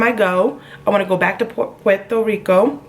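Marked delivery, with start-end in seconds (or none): 1.8-2.8 a clumsy put-on Spanish accent on "Puerto Rico"; bad Spanish accent. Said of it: "that was the worst accent".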